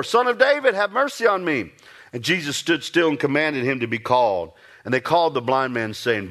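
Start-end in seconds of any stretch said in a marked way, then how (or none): 0.0-1.7 the beggar calls out again, pushing harder; a pleading shout to be heard over the crowd; crying out the more. Retold or imitated. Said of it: "he cried out the more".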